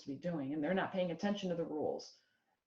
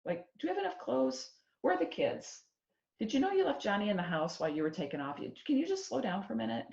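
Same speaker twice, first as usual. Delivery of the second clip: much higher, fast, anxious questions; a hammed-up nervous worrier; worried fussing; 5 semitones higher, 3 dB louder, faster than usual. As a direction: fret over every detail. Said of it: "other people saying".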